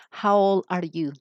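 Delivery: put-on slow, clear How old are you; careful classroom model; slow model question. Shown as a demonstration. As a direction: say it slowly to the class. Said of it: "you're going to use the question".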